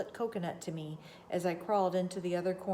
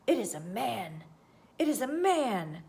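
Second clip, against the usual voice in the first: rising, louder gabbling; excited gabble; 3 semitones higher, 4 dB louder than usual. A narrator's reading. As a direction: blurt it out, getting more excited. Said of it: "gabbled my conductor".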